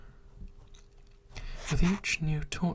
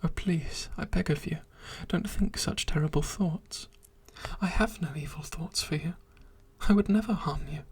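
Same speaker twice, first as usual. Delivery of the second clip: pleading creature; 3 semitones higher than usual. Acted. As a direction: beg her desperately to stop. Creature begging her to stop.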